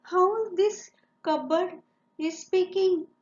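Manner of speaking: lightly acted fright, voice lifted in puzzlement; a bit frightened. Teeny tiny woman hears her cupboard speaking, a bit frightened. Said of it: "was a teeny tiny bit frightened".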